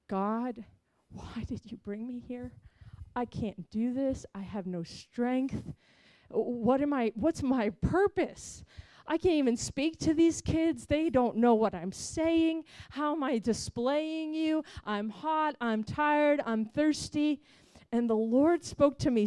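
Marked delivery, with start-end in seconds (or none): 0.1-8.6 retold weeping prayer. 9.0-17.4 pleading prayer. Retold or imitated.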